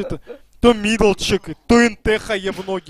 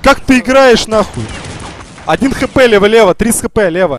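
raging gamer; 4 dB louder than usual. Real, not acted. Raging, then barking callouts.

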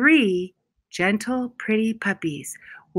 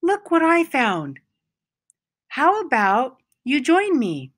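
cheery puppy; 5 semitones higher than usual. Acted. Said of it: "he said".

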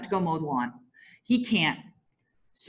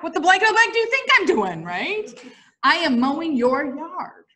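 mock yell back, raised and quick; 5 semitones higher than usual. Wife yelling back at husband from the lawn, mock yell. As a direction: fire it back at him, half-joking. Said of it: "I yell back".

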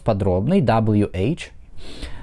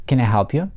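can I help you with a rise at the end; rising question tune. Shown as a demonstration. Teacher models a yes-no question rising. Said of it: "восходящая интонация".

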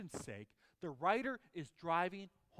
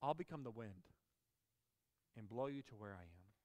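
wind sound effects; 6 semitones lower, 5 dB quieter than usual. Shown as a demonstration. Preacher reading to kids, doing the wind effect. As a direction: let the words blow like a breeze. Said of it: "you gotta do the sound effects".

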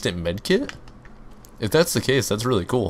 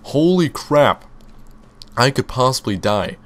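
mock panic; 3 semitones higher than usual. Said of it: "I was panicking".

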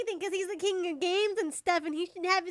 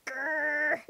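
mock angry growl; 3 semitones lower, 3 dB quieter than usual. Shown as a demonstration. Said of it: "This is my angry voice".

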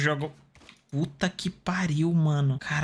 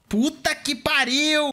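drawn-out curse; 8 semitones higher, much slower than usual. Real, not acted. Frustrated swearing in game.

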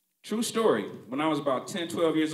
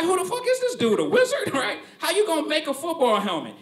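high laughing disbelief; incredulous kid; 12 semitones higher, 5 dB louder than usual. Retold or imitated. Son doubting his dad's helmet plan, high laughing disbelief. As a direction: question it like he's a wizard. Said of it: "I was like".

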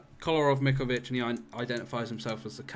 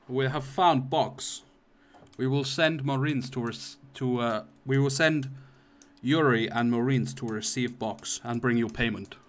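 put-on Russian accent; 4 dB louder than usual. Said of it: "they're like".

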